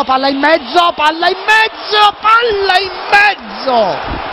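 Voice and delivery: rising, then drawn-out slow cry; building alarm. Real, not acted. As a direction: dread growing with each repeat. Building tension to equaliser.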